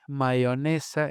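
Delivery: "mayonesa" said as "maionesa"; open Y. Shown as a demonstration. Linguist showing the local opened Y, open Y. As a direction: glide the y of "mayonesa" like a vowel i. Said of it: "la abertura de Y".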